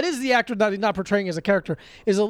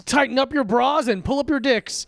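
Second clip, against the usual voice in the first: hammed-up segment intro; 2 semitones lower than usual. Co-hosts launching the Movie Pass Corner, hammed-up announcer delivery. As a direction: shout out a crude show intro with swagger.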